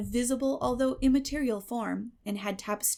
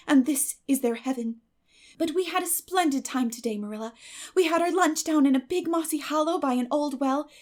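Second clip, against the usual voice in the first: put-on higher, bright-eyed chatter of an eager girl; eager girl Anne; 5 semitones higher, 4 dB louder than usual. Anne telling Marilla about Mayflowers, eager girl's chatter. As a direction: gush like a dreamy, talkative girl.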